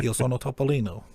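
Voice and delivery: a podcaster trying out his Italian; playful attempt at an Italian accent. Shown as a demonstration. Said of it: "my poor accent".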